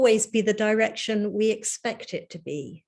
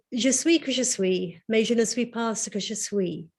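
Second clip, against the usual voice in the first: English-accented French. Shown as a demonstration. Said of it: "Please pardon my dire French accent".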